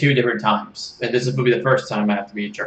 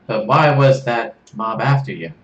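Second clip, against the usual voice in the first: put-on slower Australian accent question; attempted Australian accent; 5 dB louder, slower than usual. Kit asking Serge about the mob in Australian accent. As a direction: ask it in a wobbly Australian accent. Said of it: "supposed to be Australian".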